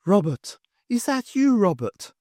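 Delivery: a hint of a ghostly woman calling her husband; a woman's voice. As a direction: call out to him as his dead wife. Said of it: "spoken in the voice of another".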